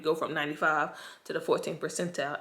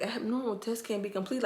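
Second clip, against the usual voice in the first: higher, puzzled mock read of "Abnormal, test can't be completed"; baffled rereading; 4 semitones higher, 4 dB quieter than usual. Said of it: "So I'm looking like".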